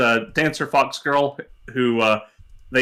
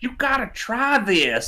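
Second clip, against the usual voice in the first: put-on very high, slurred Southern accent, swooping pitch; 10 semitones higher than usual. Describing a woman who uses made-up Southern-isms while eating; imitating slurred Southern accent. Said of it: "in a slurred Southern accent".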